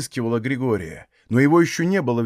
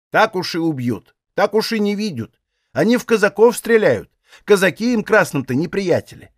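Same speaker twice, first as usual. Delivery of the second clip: put-on vexed old woman, higher, scolding lightly; annoyed old aunt; 6 semitones higher than usual. A narrator's reading. Old aunt chides Aksinya, slightly annoyed. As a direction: brush off the girl's fear with mild scorn.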